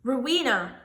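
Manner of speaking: mild impatient bellow of a name; a touch of an impatient bellow. Acted. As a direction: call her name up from the stairs, impatient. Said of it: "bellowed an impatient voice".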